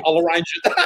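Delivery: retold quote dissolving into laughter; breaking into laughter. Real, not acted. Woman ends her funny story, really laughing. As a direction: crack up on the punchline.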